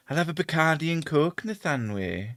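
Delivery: a light Welsh accent. Shown as a demonstration. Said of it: "I'll start off doing a Welsh accent".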